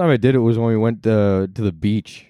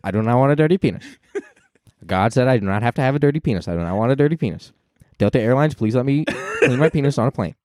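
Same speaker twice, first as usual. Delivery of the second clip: lightly voiced pundit, mock outrage; a hint of a indignant commentator; Ben Shapiro voice; 2 semitones higher than usual. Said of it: "I haven't done my Ben voice".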